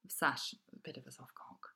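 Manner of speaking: hushed, unvoiced aside; whispered aside. Real, not acted. Aside to co-host about the son, whispered. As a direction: whisper it behind his back. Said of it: "aside whispered to Sash".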